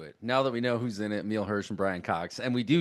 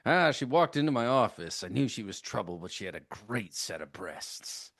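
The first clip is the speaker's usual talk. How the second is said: noir detective. Retold or imitated. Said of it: "exactly how this guy in Hollywood Chainsaw Hookers talks".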